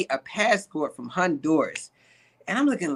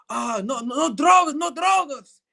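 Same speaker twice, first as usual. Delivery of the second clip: mock alarmed denial; 7 semitones higher than usual. Suspect acted out denying drugs.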